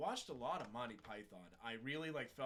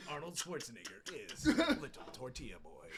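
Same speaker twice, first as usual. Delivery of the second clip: laughing; 8 dB louder than usual. Retold or imitated. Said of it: "doing Arnold Schwarzenegger impressions".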